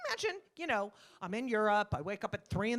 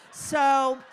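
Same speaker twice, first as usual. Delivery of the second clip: sarcastic, getting louder; loud sarcastic challenge; 6 dB louder than usual. Acted. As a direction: push it with mock sweetness, then loud.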